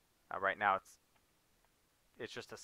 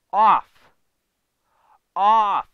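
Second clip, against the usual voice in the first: frustrated shout; 8 semitones higher, 17 dB louder than usual. Real, not acted. Yelling at withered crop.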